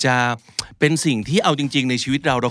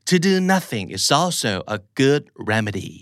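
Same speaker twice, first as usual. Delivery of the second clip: slow model reading; 2 semitones higher, much slower than usual. Shown as a demonstration. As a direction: read it slowly with clear stress. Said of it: "อีกครั้งหนึ่งนะครับ หนึ่ง สอง สาม". (อ่านช้าๆ เน้นเสียงชัดๆ)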